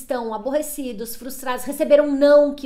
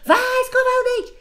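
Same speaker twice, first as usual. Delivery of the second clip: much higher, louder, a shouted order; fed-up mother yelling at her child to brush his teeth; mother's yell; 10 semitones higher, 8 dB louder than usual. Shown as a demonstration. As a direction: finally lose patience and yell it. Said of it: "se minha mãe gritou".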